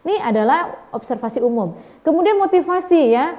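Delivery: ordinary talk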